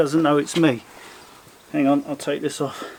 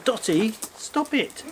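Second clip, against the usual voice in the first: much higher, sing-song voice for the cat; high mum voice for the cat; 6 semitones higher, slower than usual. Pretend. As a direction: pitch way up like the cat's mum. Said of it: "I should be talking really high pitched".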